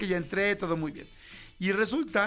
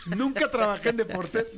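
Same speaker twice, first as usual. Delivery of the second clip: says it through laughter; host laughing off the skit, slower; 4 semitones higher, slower than usual. Real, not acted. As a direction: laugh out the words. Laughing at the joke.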